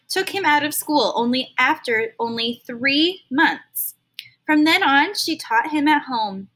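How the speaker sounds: expressive read-aloud storytelling; storybook narrator reading to kids; story narration. Acted. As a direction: read it to a class like a picture book. Reads a story to children.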